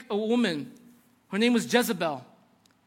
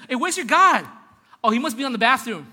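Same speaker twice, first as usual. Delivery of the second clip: mocking taunt; 3 semitones higher, 7 dB louder than usual. Prophet trolling the priests at their altar, mocking taunt. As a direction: call out to troll them, acting the boastful prophet. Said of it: "he was trolling them while they were doing".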